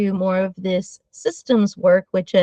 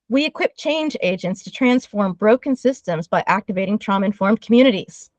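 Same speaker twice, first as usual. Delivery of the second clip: all in one breath. Real, not acted. Giving listeners the mission statement, all in one breath. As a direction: recite it straight through on a single breath. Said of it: "I said it all in one breath".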